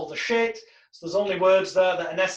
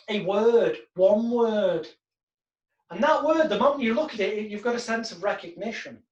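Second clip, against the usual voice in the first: calm hypnotic read; hypnotic script. Shown as a demonstration. Hypnotist leading the client into the dream, calm. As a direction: guide them gently into the dream.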